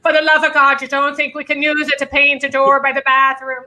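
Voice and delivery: a hint of an Irish mum nagging about wasted paint; Irish mother. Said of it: "My mother spoke the same way, and we're not Irish".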